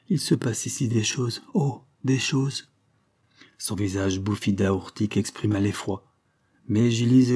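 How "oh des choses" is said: plus haut et lent, « Oh » étiré; inquiétude mystérieuse. Acted. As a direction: laisser traîner « Oh, des choses » avec crainte. La malade répète, effrayée. (répété lentement, d'une voix inquiète)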